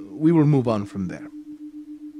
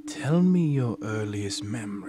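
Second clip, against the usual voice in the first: normal talking voice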